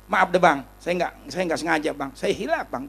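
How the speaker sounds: softened, placating plea; acted meek apology. Man apologising to his aggressor, meekly softened. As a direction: back down humbly, imitating an apology.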